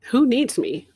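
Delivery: loud, incredulous protest; loud disbelief. Retold or imitated. Answering the inner voice, loud and disbelieving. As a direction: throw the question back, stunned.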